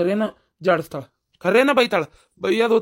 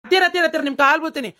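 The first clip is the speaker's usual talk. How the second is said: exasperated pleading; 6 semitones higher, faster than usual. Acted. Begs her to stop singing.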